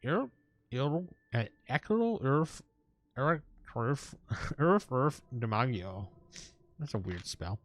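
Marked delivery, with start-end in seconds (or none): 0.0-6.1 slow, lightly voiced old wizard; old man voice. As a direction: read it as a frail old man. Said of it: "we could do an old man voice".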